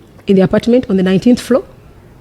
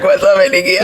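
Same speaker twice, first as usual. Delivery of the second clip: mock surprise. Laughing retelling of surprise.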